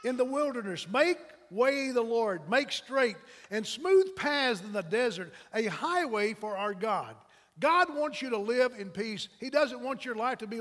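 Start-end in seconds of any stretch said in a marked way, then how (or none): 0.0-7.2 loud, slow prophetic proclamation; crying out. Acted. John the Baptist crying in the wilderness, proclaiming loudly. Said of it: "one who cries".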